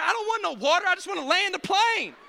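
mock grumpy husband; irritated refusal. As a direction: brush off the offer. Passenger snaps at wife.

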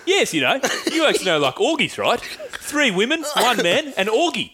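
imitated South African mate, laughter creeping in. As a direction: explain matter-of-factly as the South African mate. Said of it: "He goes".

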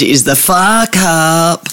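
put-on slow, drawn-out Kiwi accent; mock Kiwi "Far Cup" for "Four Cup". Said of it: "I wish I had a better Kiwi accent".

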